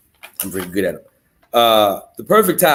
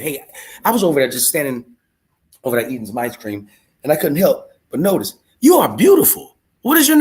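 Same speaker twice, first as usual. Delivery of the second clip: mock flirt approach; 2 semitones higher than usual.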